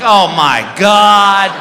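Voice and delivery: hammed-up slow-motion shock; mock horror. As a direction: drag it out, appalled. Appalled reaction to handkerchief floating up.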